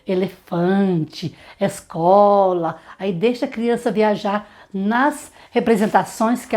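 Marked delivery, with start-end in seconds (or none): 0.0-2.8 "Elefante", "escola" bem devagar; imitando respostas das crianças. Retold or imitated. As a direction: diga as palavras como criança respondendo. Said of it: "a criança vai dar várias opiniões". (crianças respondendo devagar)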